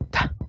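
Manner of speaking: "Ta" corta, con T explosiva; oclusiva T. Shown as a demonstration. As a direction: suelta "Ta" como sílaba aislada. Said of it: "se convierte en T". ("Ta" seca con oclusión al inicio)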